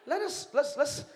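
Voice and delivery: God voiced as a relaxed friend; casual God voice. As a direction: pitch the idea like a buddy. God voiced casually planning man.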